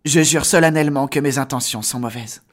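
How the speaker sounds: voix de héros grave et sérieux, posée; dis-le solennellement, chaque mot compte; Harry Potter. Shown as a demonstration. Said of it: "avec la voix d'Harry Potter". (voix posée et solennelle de jeune héros)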